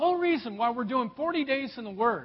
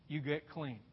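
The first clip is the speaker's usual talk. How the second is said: much softer, dropped low echo; 7 semitones lower, 12 dB quieter than usual. Shown as a demonstration. Preacher echoing the last step, hushed and low. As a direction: let it sink in, nearly under the breath.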